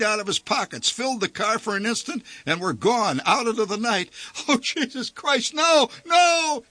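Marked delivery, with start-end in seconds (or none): 4.5-6.6 shrill high wail on no, no; high panicked shout; desperate yell. A narrator's reading. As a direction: yell in panic as things fly away. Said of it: "he yelled again".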